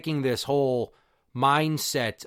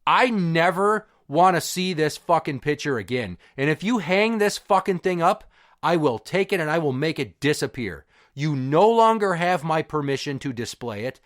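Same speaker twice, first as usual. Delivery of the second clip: retold anger, emphatic, only mildly raised; angry raised voice. Son banning the senior picture to dad, retold mild anger. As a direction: lay down the law with restrained heat. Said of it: "I started raising my voice".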